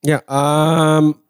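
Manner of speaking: cracked voice, slightly; voice cracking. Real, not acted. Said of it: "my voice just cracked a little bit".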